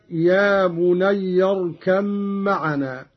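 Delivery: بني said "bunayya", ending in a; fatha on ya. Shown as a demonstration. Teacher quoting the verse first, fatha at the end of بني. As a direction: run بني into اركب as "bunayya-rkam". Verse before Qalun's reading is shown.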